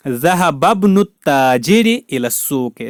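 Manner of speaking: "ज़हबब्नु ताजिर" slowly run together, no alif; linked reading. Shown as a demonstration. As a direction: draw out "ज़हबब्नु" as one joined word. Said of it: "मिलाते वक्त".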